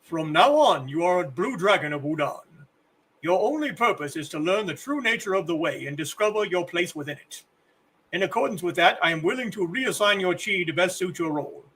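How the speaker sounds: lightly voiced old kung fu master; a hint of a solemn elderly teacher; old man voice. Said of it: "It's the old man voice again".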